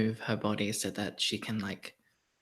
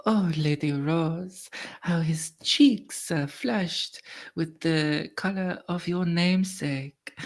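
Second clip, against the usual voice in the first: courtly lady Violette; 5 semitones higher than usual. Acted. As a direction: confide coyly behind a fan.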